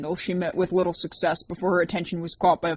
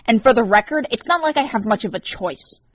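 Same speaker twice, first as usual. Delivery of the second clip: getting angry; 4 semitones higher, 5 dB louder than usual. A narrator's reading. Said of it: "He was beginning to get angry".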